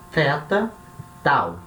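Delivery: "teta" with th, then "tau" with a hard dry T; th versus dry T. Shown as a demonstration. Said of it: "um som mais seco".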